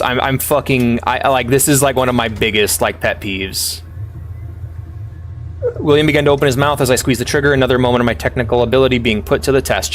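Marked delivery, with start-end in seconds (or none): 5.8-9.9 rushed read of the narration; fast story reading. A narrator's reading. Streamer hurrying through the game's narration, fast. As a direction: rattle the story text off quickly.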